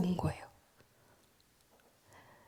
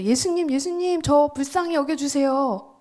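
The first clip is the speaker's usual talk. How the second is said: ordinary plea; 4 semitones higher than usual. Retold or imitated. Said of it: "보통은 이렇게 했겠죠".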